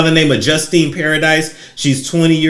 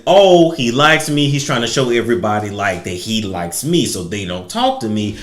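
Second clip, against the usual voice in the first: mock hopeful girl; 3 semitones lower than usual. Retelling what the young woman told herself, mock-dreamy. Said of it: "she took it as".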